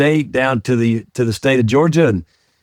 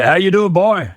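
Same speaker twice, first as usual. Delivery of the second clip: higher, mock-stern dad greeting; gruff military dad; 6 semitones higher than usual. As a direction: play the old Army dad hailing his son. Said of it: "he'd say".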